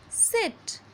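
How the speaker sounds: "sit" with a short, relaxed "i". Shown as a demonstration. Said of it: "in S I T sit".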